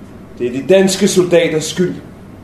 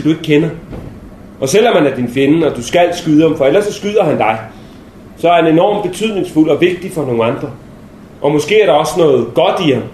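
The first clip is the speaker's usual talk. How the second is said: earnest captain. Retold or imitated. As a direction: press it on him like a serious captain. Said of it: "helt indtrængende i blikket, og så sagde han". (alvorlig kaptajn, dæmpet og indtrængende)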